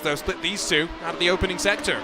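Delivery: brisk commentator call, lifted and driving; live race play-by-play. Acted. Commentator calling the race start to viewers, brisk play-by-play.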